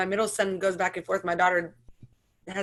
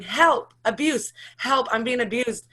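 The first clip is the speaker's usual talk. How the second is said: higher, louder mock cry for help; imitating daughter's yelling; 4 semitones higher, 4 dB louder, slower than usual. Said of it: "And she starts yelling".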